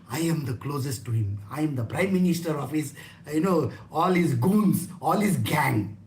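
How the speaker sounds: low-pitched boast of closeness; mock self-importance. Devotee claiming to be closest to Krishna, self-important. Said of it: "everybody thinks like that".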